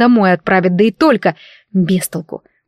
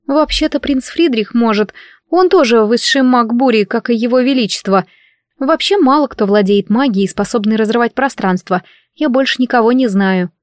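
put-on higher, light girlish voice; helpful young maid; 3 semitones higher than usual. Maid tells her lady who has magic, helpful. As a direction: explain helpfully in a lightly acted maid's voice.

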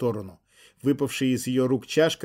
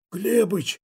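higher, louder hoarse call; hoarse cry; 8 semitones higher, 3 dB louder than usual. Acted. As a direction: croak the name out in pain. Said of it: "прохрипел Михал".

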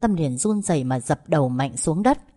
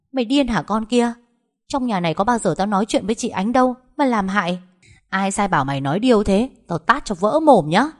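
raised pitch, angry retort; indignant scolding; 5 semitones higher, 4 dB louder than usual. Acted. Trúc to the servant who accused her, indignant. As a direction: lash back at the accuser, threatening.

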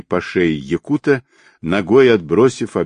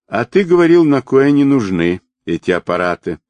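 high, loud reproach easing off at the end; pointed, high-pitched reproof; reproachful; 6 semitones higher, 4 dB louder than usual. A narrator's reading. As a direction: throw it back at him as an I-told-you-so. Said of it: "укоризненно заметил длинноволосый".

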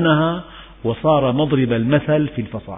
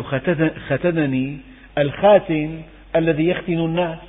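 ساخر; 3 semitones higher than usual. Retold or imitated. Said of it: "أجابه باستهزاء".

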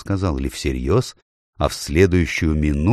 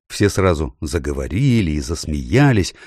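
ordinary delivery

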